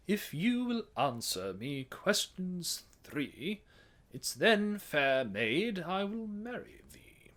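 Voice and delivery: "If you will answer me questions three" in a churchy British accent with no R; Anglican Church British. Shown as a demonstration. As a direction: sing like an Anglican choirboy, slow. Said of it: "Anglican Church British".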